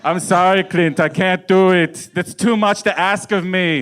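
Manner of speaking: slow, lightly put-on apology; a hint of drawn-out mock regret; apologetic actor. Actor turning down the director, slow mock apology. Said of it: "but then was like".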